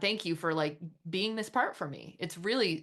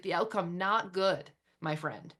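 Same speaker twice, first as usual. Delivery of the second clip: friendly verdict; slower than usual. Shown as a demonstration. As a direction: deliver the bad news kindly, like a pal. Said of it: "This is how I would speak to it".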